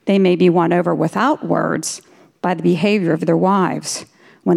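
measured, earnest reading of a Bible verse; scripture reading. Acted. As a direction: read the verse as a solemn quote. Reads scripture aloud.

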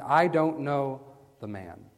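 firm oath, falling away on the last words; stronger denial. Acted. Peter denies Jesus with an oath, firmly. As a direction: deny it firmly, with a pause before the end. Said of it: "making it stronger".

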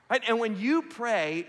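ordinary talk, nothing marked

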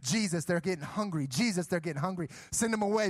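urgent repeated pleas, lightly acted panic; mock freaking out. Disciples begging Jesus to deal with hungry crowd, mock freaking out. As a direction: imitate frantic disciples pleading in a string. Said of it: "they start freaking out".

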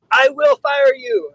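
high, slow mock threat; hammed-up angry commander. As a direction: commander threatening behind closed doors. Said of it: "you know, like".

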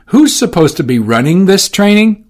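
high, loud stern question; stern demand. Acted. Orsino sternly demanding answers from Johnson. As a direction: demand it with a hard stare.

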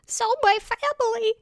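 cracking voice. Real, not acted. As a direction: voice breaks up high. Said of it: "did you hear my voice crack like I'm a thirteen-year-old boy".

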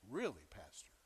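whispered mock doubt, low and breathy. Skeptical listener voiced by pastor.

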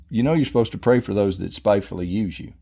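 lightly voiced, quick, unruffled reminder; a hint of patient conscience under the outburst; inner voice of conscience. The Holy Spirit answering his mad protest, understated calm. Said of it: "this thought comes in my head".

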